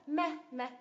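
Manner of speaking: "Me" said with firm stress; stressed syllable. Shown as a demonstration. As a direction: stress each short "me". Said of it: "nhấn vào tiếp thứ nhất".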